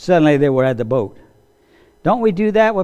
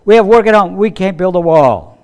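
discouraged workers; 4 dB louder than usual. Acted.

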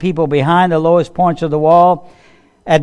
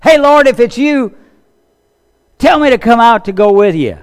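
eager Peter; 6 semitones higher, 5 dB louder than usual. Acted. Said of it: "He said".

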